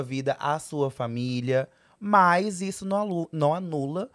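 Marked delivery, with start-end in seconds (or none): 2.0-4.1 laughing. Real, not acted. Laughs while teasing grandma.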